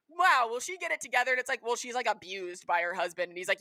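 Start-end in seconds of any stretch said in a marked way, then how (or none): 0.1-1.3 sarcastic. Retold or imitated. Voicing judgmental onlooker.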